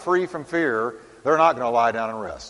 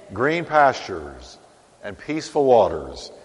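savoring; 4 semitones lower than usual. Shown as a demonstration. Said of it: "That sounds good to me".

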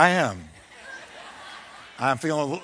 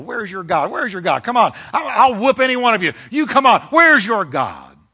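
a hammed-up giant jeering, higher and louder; Goliath's taunt; 4 semitones higher, 4 dB louder than usual. Goliath taunting Israel's army, loud mock bravado. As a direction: swagger and dare them to fight. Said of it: "that's what Goliath was saying to Israel".

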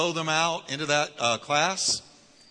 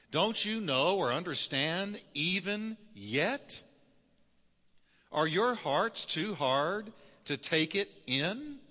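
slow, rising, higher rebuke of slow disciples; Jesus scolding; 4 semitones higher, slower than usual. Acted. Jesus scolding his disciples, slow and higher. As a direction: plead with them, drawing each question out. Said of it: "so he said".

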